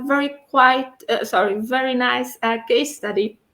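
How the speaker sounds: slurred by new braces; tongue tripping over braces. Real, not acted. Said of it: "It's hard to talk with the braces".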